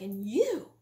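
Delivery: re-enacted yelling at a husband; yelling accusation. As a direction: hurl it at him, high and indignant. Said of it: "yelling at him, basically".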